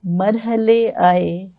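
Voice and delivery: slow, measured ghazal recital; ghazal recitation. Acted. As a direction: recite it like at a mushaira.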